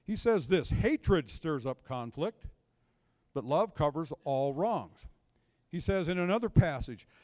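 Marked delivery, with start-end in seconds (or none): 0.7-5.1 scripture reading. Acted. Reading Proverbs aloud.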